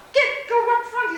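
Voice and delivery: loud laughing urge. Retold or imitated. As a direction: shoo her forward, laughing loudly. Friend urges her up front.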